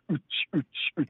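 vocalized dance-music thump; rhythmic "ooch" beat noises; house beat imitation. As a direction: mimic a club beat with the mouth. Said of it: "translated as the music that goes".

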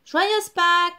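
loud happy greeting; excited Easter cry; cheerful shout. A narrator's reading. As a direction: call it out joyfully. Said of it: "crièrent Simon, Hannibal et Alfred".

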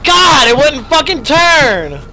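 high, loud frantic shouts; panicked yelling. Real, not acted. Gamer yelling at a stuck valve, panicked shout.

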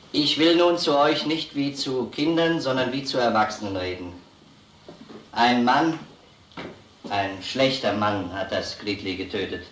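grave, careful address. Acted. Officer speaks gravely to children.

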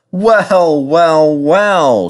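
high, teasing singsong; amused chuckling. A narrator's reading. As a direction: savour each word with mock wonder. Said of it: "chuckled Edward".

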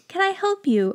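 a small wizard greeting a customer; weird wizard accent. Acted. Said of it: "I gave him this weird accent".

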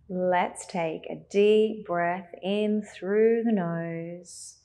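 slow, drawn-out breathing cue; guided meditation. Acted. Leads a breathing exercise.

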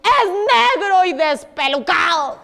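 slow, drawn-out mock alarm; frightened chick. Third chick describing the monster, mildly frightened. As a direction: stretch the words out with a touch of fright. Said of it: "quedó así temblando del susto".

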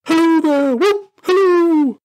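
very high, loud hallooing; joyous whooping. Acted. Scrooge frisking about the room, whooping. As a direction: whoop and holler with joy.

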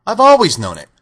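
high, loud cowardly-lion lament; ashamed lion. A narrator's reading. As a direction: plead helplessly in a high voice. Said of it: "hanging his head in shame".

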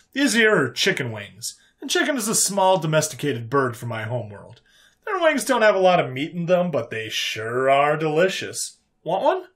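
a hint of a down-home host; folksy human character. Human offering chicken wings to the alien, folksy.

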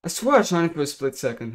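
frustrated gamer protesting; indignant insistence. Real, not acted. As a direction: insist you hit him. Insisting the shot landed.

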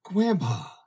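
put-on a small child suddenly knowing him; child's glad recognition. A narrator's reading. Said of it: "the whole face sweetened to a smile".

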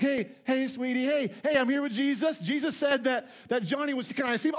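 playing a dad thrilled to see his son on camera; hammed-up excited parent on the phone; excited FaceTime dad. Pastor acts a FaceTime call home.

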